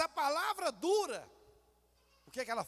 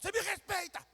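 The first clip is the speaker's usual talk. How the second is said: higher, sharp parental rebuke; raised scolding voice; 6 semitones higher than usual. Retold or imitated. Parent scolding a talking-back child, raised voice. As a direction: put the child in his place. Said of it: "a gente quer falar mais alto".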